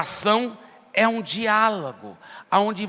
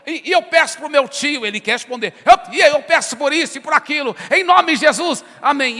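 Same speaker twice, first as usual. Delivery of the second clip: higher and louder, rattled off; rushed loud prayer; 6 semitones higher, 6 dB louder than usual. Retold or imitated. Preacher mimicking a prayer that never lets God answer, loud rushed. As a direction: rattle through requests without a breath. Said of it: "ora desse jeito".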